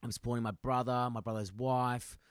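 earnest imitation with a hint of Colombian accent. Colombian worker explaining his family's troubles, Colombian accent. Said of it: "started doing an accent".

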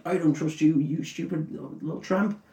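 high put-on voice, sneering; a jealous hobbit sneering at the stranger; mock Sam voice. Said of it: "and he's just like".

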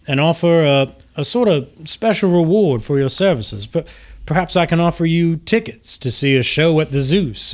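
genteel host gushing with gratitude; gracious Lucian Flametongue. Acted. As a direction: greet them with courtly, lilting flattery. Lucian greets and rewards heroes.

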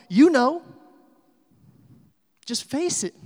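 taunting accusations, rising in pitch and volume; accusing Satan. Acted. Satan accusing a churchgoer, taunting and building to loud condemnation. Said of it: "all he has to say to us".

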